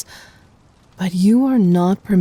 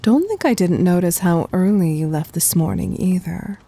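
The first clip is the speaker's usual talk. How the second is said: whisper. Acted. Intimate scolding aside.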